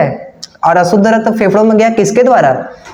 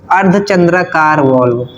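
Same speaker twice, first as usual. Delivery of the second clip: slow naming. Shown as a demonstration. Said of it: "देखो".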